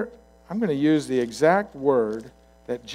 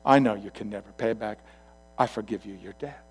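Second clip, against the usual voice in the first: lower, softening toward the end; compassionate; 4 semitones lower, 6 dB quieter than usual. Acted. King moved with compassion forgives the debt, gently. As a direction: grant mercy quietly. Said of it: "moved with compassion".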